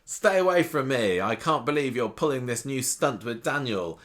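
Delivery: lightly acted anger at the flatmate; mock angry.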